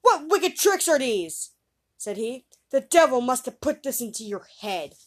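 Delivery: father scolding his son loudly. Acted. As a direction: scold the boy hard. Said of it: "scolded the boy".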